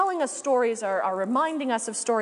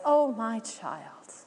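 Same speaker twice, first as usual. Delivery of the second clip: voice of God. Acted. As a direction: speak gently to a stubborn beloved child. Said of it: "the voice of God says".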